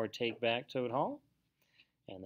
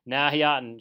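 loud, emphatic contradiction; shouted objection; 3 semitones higher, 10 dB louder than usual. A narrator's reading. Mole objecting to Rat's idea, shouted objection. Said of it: "shouted the Mole".

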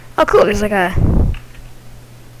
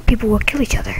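sinister scheming. Acted. Scheming ghost plan.

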